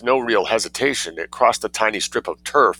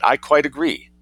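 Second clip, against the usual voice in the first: sharp retort; 7 semitones higher than usual. A narrator's reading. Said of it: "retorted the lady".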